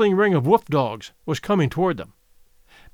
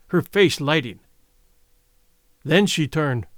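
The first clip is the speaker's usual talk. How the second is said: ordinary delivery, nothing marked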